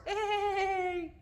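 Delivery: high, drawn-out zebra bray; horse-like bray. Shown as a demonstration. Teacher showing how zebras bray, high horse-like call. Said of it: "which is kinda like a horse".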